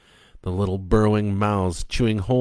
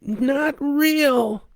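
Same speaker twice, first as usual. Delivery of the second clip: yelled back; 4 dB louder than usual. Acted. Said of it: "she yells back".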